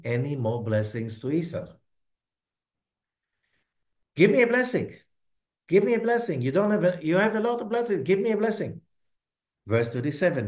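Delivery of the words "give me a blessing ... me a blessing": high, insistent begging son; pleading. Acted. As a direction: keep pressing, nagging for the blessing. Esau begs his father for blessing.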